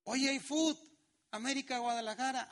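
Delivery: suddenly wide awake for football; excited call. Acted. Preacher voicing a lazy son called to the match, excited.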